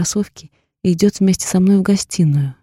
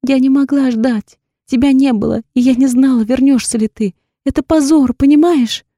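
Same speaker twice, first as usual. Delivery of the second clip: tearful pleading; 6 semitones higher, 5 dB louder than usual. A narrator's reading.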